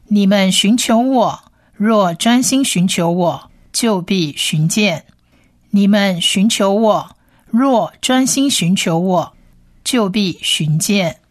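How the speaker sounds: slow, measured verse reading; deliberate scripture recitation with pauses. Acted. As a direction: read the verse out slowly, phrase by phrase. Reads the Bible verse aloud.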